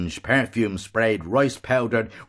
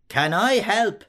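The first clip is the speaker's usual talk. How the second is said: ferocious; 12 semitones higher, slower than usual. A narrator's reading. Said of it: "Missus Keogh, ferociously".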